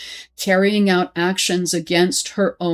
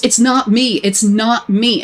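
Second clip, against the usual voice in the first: yelling; 3 semitones higher, 4 dB louder than usual. Retold or imitated. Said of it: "and yells".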